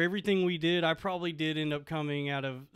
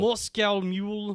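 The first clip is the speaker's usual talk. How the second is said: slow put-on Russian accent; 3 semitones higher, slower than usual. Shown as a demonstration. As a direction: draw it out in mock Russian. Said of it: "see if I can do a Russian voice".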